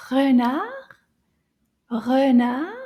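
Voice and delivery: renard, French r in the throat, first syllable schwa. Shown as a demonstration. Teacher modelling renard for a child. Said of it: "Can you find the E sound".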